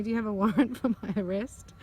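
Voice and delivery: real amusement slipping out mid-sentence; laughing. Real, not acted. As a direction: laugh breaking into the question. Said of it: "Sorry, I'm laughing".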